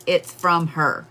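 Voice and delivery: slow, stubborn repetition; slow insistent repeat. Retold or imitated. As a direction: say it slowly like he won't budge. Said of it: "he just says".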